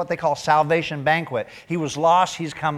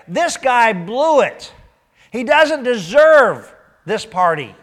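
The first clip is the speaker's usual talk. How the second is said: mock resentful brother; 8 semitones higher, 8 dB louder, slower than usual. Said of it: "He's like".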